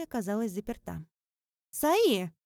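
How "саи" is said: loud high call through a door. A narrator's reading. Lis calls Sai through the locked bathroom door.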